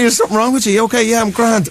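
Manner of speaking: laughing. Real, not acted. Laughing through a retold dinner story.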